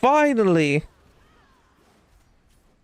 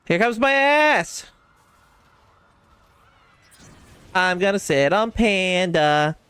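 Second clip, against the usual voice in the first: mock impression. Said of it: "Damn perfect impression".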